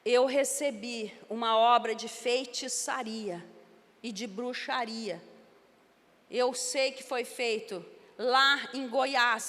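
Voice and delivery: slow, lightly voiced witch muttering a curse. Witch whispering in her ear, slow, lightly voiced. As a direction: drag the words out like a hinted witch. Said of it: "E ela falava assim".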